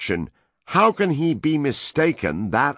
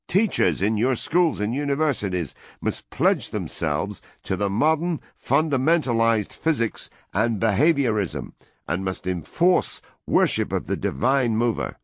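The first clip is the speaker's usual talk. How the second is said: loud, higher dictatorial demands; raised voice; 6 semitones higher, 3 dB louder than usual. A narrator's reading. American envoy dictating terms to the woman, loud and high. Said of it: "the American raised his voice".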